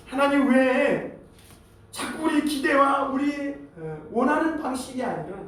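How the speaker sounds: mildly aggrieved questioning, leaning on each why; put-upon protest, understated; acted complaint to God. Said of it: "불평을 늘어놓는 때가 있습니다".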